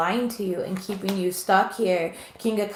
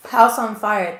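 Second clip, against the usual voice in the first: louder, quick exclamation at the card's message; blurted reveal; 6 dB louder, slower than usual. Real, not acted. Tarot reader blurting out the message to viewers, loud and sudden. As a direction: call out what the spirit said. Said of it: "They literally just said".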